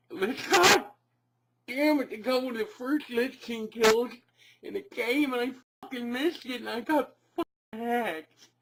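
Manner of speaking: angry rant. Acted. Gamer raging over hacked account.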